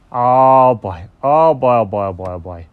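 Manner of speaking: lightly voiced dog catching a scent; mild dog excitement. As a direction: let the oh-boys fade as they drop. Dog smells something exciting.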